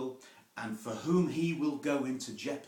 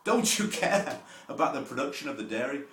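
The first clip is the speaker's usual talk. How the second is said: high, loud, scolding "Don't you care?"; a factory manager scolding a worker on the cheese line; angry manager; 5 semitones higher, 11 dB louder than usual. Retold or imitated. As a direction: bark at a slacking worker like a cross boss. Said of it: "the manager said".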